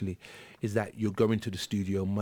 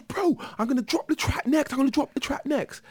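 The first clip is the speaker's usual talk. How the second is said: DJ hyping. Retold or imitated. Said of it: "He goes".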